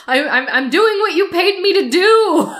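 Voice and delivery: high, loud whining protest; Rabbit's high, loud exasperated whine. Retold or imitated. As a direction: plead that you did your job.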